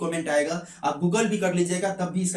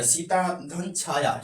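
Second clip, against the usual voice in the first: slow example; much slower than usual. Shown as a demonstration. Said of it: "सीता धन छाया example लेते हैं".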